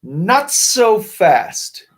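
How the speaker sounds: high, slow menacing "Not so fast"; hammed-up sinister teacher; unpleasant hiss. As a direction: cut them off like a nasty new teacher. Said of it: "hissed an unpleasant voice".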